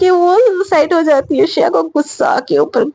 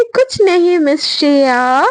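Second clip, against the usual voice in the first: slower, stretched-out mock innocence; drawn-out cover-up; slower than usual. Sejal covering her jibe when Shreya asks, drawn-out innocence.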